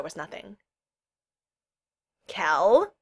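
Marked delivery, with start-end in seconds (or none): 2.3-2.9 louder call with a questioning lift; calling out loudly. A narrator's reading. Kel calls to a possible hider, loudly. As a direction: call into the silence, unsure. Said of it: "she said loudly".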